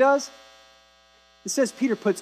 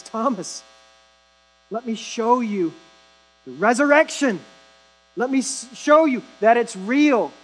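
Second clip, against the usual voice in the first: gentle Jesus. Retold or imitated. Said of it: "He says".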